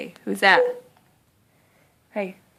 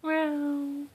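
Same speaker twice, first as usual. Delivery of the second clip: kitty meow; 6 semitones higher, 5 dB quieter than usual. Shown as a demonstration. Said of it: "What's a kitty say?".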